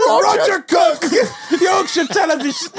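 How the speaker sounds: high, slow shouted sign-off; laughing mock reporter sign-off; catchphrase. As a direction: announce it grandly. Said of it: "I was like".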